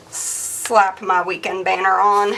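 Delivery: slow southern drawl; southern accent. Real, not acted. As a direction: draw it out with a southern twang. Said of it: "I suddenly developed a southern accent".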